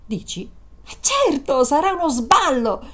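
high, coaxing and gleeful; excited. Acted. Woman coaxing Peter into a joyride, excited. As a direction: stretch out trionfanti in triumph. Urging him to have fun.

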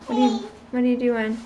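ordinary talk, nothing marked

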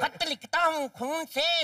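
slow verse recital; teasing letter reading. Acted. Boy reads a love letter aloud, slow mock recital. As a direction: read it out slowly, line by line.

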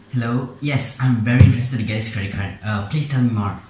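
an overexcited caller grabbing the sales pitch; eager customer. Acted. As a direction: jump at the offer like a kid. Eager customer role answering.

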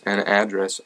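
"address" as uh-DRESS; unstressed first vowel. Shown as a demonstration. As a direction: stress the second syllable of "address". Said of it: "however you would like me to say that".

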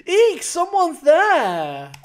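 high, loud startled shriek. Acted. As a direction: jump at a figure in the dark. Startled by a skeleton.

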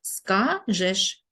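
"Скажеш" split as ска-жеш; syllable-by-syllable dictation. Shown as a demonstration. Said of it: "значить пропущена буква".

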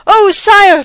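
high, loud gasp of alarm; panting messenger. A narrator's reading. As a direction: plead breathlessly with the king. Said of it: "panted the messenger".

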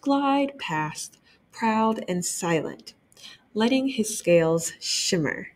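gentle read-aloud narration; children's librarian reading aloud; story narration. A narrator's reading. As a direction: read it like story time for kids. Reading the picture book aloud.

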